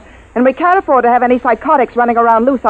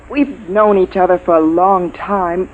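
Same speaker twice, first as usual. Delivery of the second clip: gentle appeal; 4 semitones lower, slower than usual. Acted. Commander appeals to an old friend.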